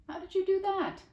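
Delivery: high, loud astonished question; girl amazed at the boy's confession. Acted. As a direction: blurt it out in disbelief. Amazed girl asks about truck.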